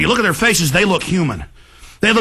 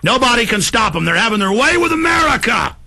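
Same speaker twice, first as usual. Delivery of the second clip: escalating rant; 2 semitones higher than usual. Real, not acted. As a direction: build from firm to yelling. Rant building into shouting.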